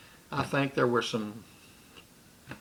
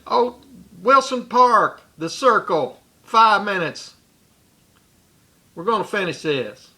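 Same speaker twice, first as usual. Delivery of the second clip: loud challenge; 6 semitones higher, 6 dB louder than usual. Retold or imitated. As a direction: call him out to fight, deliberate and loud. Challenging Butch to fight.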